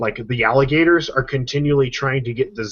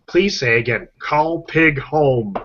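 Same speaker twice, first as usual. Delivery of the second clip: robotic phone voice; 2 semitones higher, slower than usual. Retold or imitated. Phone speech recognition repeats.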